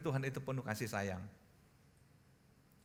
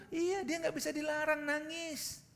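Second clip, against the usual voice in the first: lightly voiced parent, pitched high; interviewed parent; 13 semitones higher, slower than usual. Parent answering a TV reporter about a child, lightly imitated. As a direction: explain in a high, put-on parent's voice. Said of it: "mewawancarai orang tuanya".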